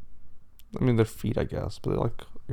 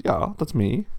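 put-on pig with a German accent; 3 semitones higher, 4 dB louder, slower than usual. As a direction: answer the door in a German accent. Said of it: "And the pig's German".

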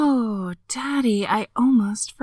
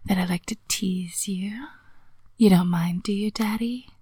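teasing whisper. Acted.

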